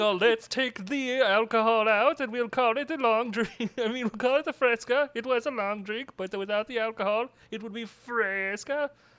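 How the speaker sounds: put-on Finnish accent. Speaker acts out the Finns inventing a drink, in a Finnish accent. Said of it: "Is that a Finnish accent?".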